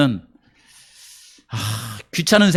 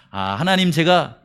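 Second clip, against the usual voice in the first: mock grateful prayer; 3 semitones higher than usual. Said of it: "이렇게 했을까요?".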